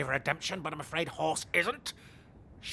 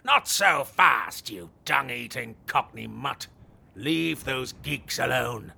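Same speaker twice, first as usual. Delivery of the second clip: commanding challenge; 3 semitones lower, 6 dB louder, slower than usual. Acted. Knight confronts robber.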